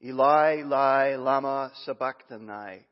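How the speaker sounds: loud cry. Acted. Jesus calling out to God from the cross, loud anguished cry. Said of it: "called out with a loud voice".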